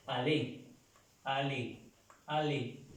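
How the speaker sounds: "aller" as a-LÉ, plain L, silent r; separate, falling repeats of "a-LÉ"; French pronunciation drill. Shown as a demonstration. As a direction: repeat "aller" three times as a-LÉ. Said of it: "el verbo se pronuncia".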